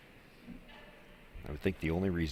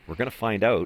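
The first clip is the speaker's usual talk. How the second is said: laughing; 5 semitones higher, 8 dB louder than usual. Real, not acted. Joking about a freeze shot.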